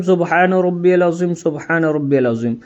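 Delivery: "अज़ीम" with a buzzing z, never j; correct Arabic pronunciation. Shown as a demonstration. Teacher repeating the bowing prayer, "अज़ीम" said with z. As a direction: recite "अज़ीम" as azeem, with the Arabic z sound. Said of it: "किस तरीके से पढ़ना है वो भी बता दे रहा हूँ".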